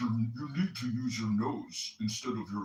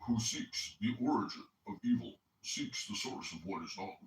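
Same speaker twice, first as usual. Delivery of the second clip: lightly put-on nasal voice, reading aloud; mock a friend's nasal voice while reading; a hint of a nasally Chicagoan read; mock Coptic. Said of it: "imitate Coptic as I read".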